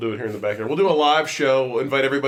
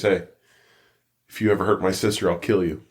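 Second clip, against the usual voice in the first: a low, mock-menacing big-brother warning; lightly voiced brother turning suddenly grave; dead serious threat; 5 semitones lower than usual. Brother warning sister's new boyfriend, low mock menace. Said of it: "then he gets real serious".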